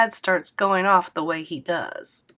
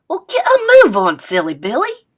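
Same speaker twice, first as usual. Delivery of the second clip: much higher, louder playful granny; squealy hurry-up; 6 semitones higher, 10 dB louder than usual. Acted. Grandma hurrying Scoob to the bathroom, high playful. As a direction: shoo him off teasingly. G-Maw hurries him.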